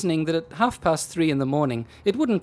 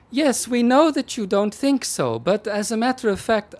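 pitched-up sardonic constable; policeman voice; 9 semitones higher, 5 dB louder than usual. Acted. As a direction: brush her off with sarcasm.

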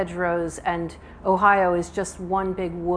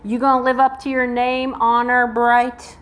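hammed-up Southern accent, teasing; 5 semitones higher, 7 dB louder than usual. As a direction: play a taunting Southern man, dragging out the end. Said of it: "you will hear my Southern accent".

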